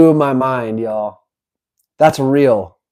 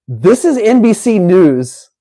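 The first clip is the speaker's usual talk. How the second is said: mock news anchor; 6 semitones higher than usual.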